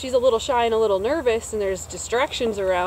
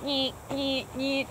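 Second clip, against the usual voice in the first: vibration noise; 3 semitones higher, 4 dB quieter, much slower than usual. Retold or imitated. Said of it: "there is something like".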